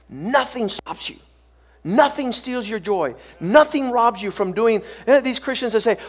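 driving, repetitive sermon rhythm; emphatic preaching. Real, not acted. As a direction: hammer the first word of each phrase.

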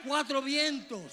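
preaching shout. Real, not acted. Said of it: "Tú gritas".

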